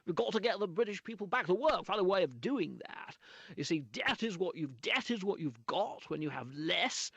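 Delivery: lightly voiced Prime Minister speech; a hint of David Cameron's confident delivery; mild Cameron impression. Shown as a demonstration. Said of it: "I'll try, I'll have a go".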